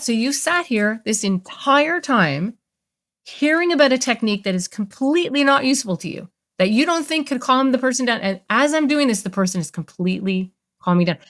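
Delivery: slow, soothing demo of the technique; steady calming voice. Retold or imitated. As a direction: talk him down gently and slowly. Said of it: "And I basically said".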